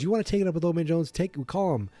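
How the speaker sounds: fast high taunting voice; Biff voice. Retold or imitated. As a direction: fire it off as a bully. Quoting Biff.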